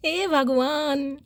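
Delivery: slow, drawn-out sigh of oh god; exasperated sigh. Real, not acted. Reader groans at the client's attitude, slow sigh. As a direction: stretch it out, fed up but amused.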